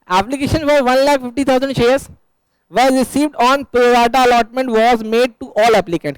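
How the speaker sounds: slow, deliberate dictation of the problem; measured reading like a teacher dictating; reading the question aloud. Acted. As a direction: spell it out slowly so the class can write it down. Reads the question text aloud.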